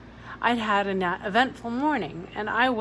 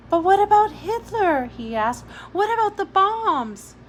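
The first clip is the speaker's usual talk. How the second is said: put-on much higher, louder worried child; alarmed boy; 10 semitones higher, 8 dB louder than usual. A narrator's reading. Jamie to Billy, high and alarmed. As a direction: panic a little like a scared boy.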